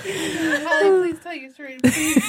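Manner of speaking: begging through giggles; laughing plea. Real, not acted. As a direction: plead while cracking up.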